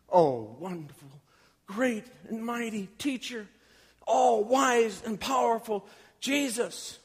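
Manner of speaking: a hint of oily, fawning praise; schmoozing flattery. Rich young ruler flattering Jesus, in lightly mock fawning tones. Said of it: "he's trying to schmooze Jesus".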